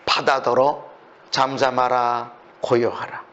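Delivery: low, slow, measured order; hushed-down, weighty imperative; solemn command. Acted. Voices Jesus commanding the sea.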